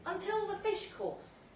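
high and slow, building suspense; orating to guests, drawing it out; dramatic storytelling. Acted. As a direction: lean in on the twist. Dramatic pause in speech.

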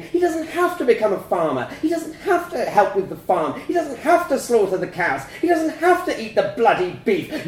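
high, loud scream at the father. A narrator's reading. Mother to the father, screaming high and loud. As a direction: scream it in his face. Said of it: "my mum was screaming".

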